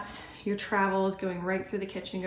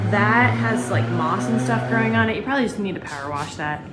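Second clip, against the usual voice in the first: raised voice over loud noise; yelling over leaf blower; 7 dB louder than usual. Real, not acted. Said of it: "sorry, leaf blower".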